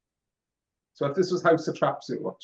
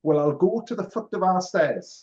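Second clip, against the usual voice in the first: put-on Lancashire accent like an old music-hall singer; broad Northern English saying; 3 semitones higher than usual. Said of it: "the singer says, and he's Northern".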